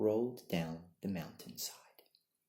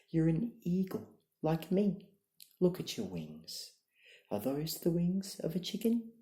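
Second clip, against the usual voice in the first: much higher, louder insistence; eager urging; 8 semitones higher, 6 dB louder than usual. A narrator's reading. Eagle urges his grounded brother, higher and louder. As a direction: convince him he is an eagle.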